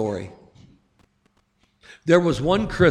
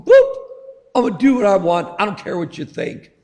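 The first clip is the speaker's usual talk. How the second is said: defiant sinner; 3 semitones higher, faster than usual. Retold or imitated. Sinner brushing God off, a hammed-up defiant voice. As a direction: sneer it like a brat ignoring God. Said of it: "We're going".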